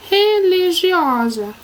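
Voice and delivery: religiosa stretched slowly as one word; drawn-out word. Shown as a demonstration. Teacher announcing the next word, religiosa drawn out. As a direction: say religiosa slowly and fully sounded out.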